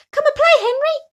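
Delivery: high, loud call across the ice; playful shout. Acted. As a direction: call out to a friend to come play. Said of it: "they shouted".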